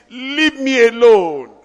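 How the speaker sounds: mimicking a pleading believer. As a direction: plead like someone harassed.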